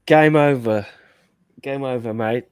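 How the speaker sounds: put-on English accent, loud then easing off; John doing an Englishman. Host jokingly signing off, lightly mocked English accent. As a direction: imitate someone's mock-English accent. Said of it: "impression of John doing an impression of an Englishman".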